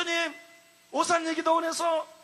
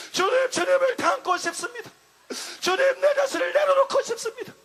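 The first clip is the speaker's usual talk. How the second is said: rising, louder pleading cries; fervent prayer; 4 semitones higher, 3 dB louder than usual. Retold or imitated. The preacher longs for the Lord, crying out higher each time. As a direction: build each plea higher and stronger. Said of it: "영혼 속에 완전히 탄식이 일어났어요".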